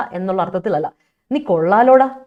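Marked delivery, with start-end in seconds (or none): 1.3-2.2 sarcastic "നീ കൊള്ളാലോടാ" as fake praise; mocking. Shown as a demonstration. Teacher showing students how to mock a person, sarcastic praise. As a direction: tease someone with praise you don't mean. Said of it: "you are mocking at that person".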